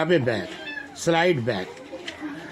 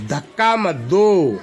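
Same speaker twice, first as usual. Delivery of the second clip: slow and louder for the class; slow model reading; 2 semitones higher, 5 dB louder, much slower than usual. Shown as a demonstration. Teacher calls sentence to young class. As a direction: call it out for the children to repeat. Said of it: "teacher models for children".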